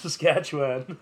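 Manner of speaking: slow, imitated Southern accent. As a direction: draw it out in a mock Southern accent. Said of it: "southern accent".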